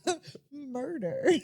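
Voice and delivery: drawn-out playful threat; cartoony menace. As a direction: play a silly murderous cartoon donkey. Joins in voicing cartoon donkey.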